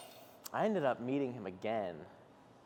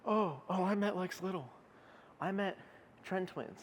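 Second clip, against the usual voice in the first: mocking voice; 9 semitones higher than usual. Mocking an imagined name-dropper.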